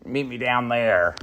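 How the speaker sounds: a lightly put-on Midwestern accent. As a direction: attempt a thick Midwestern accent. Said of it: "attempt to do my Midwestern accent".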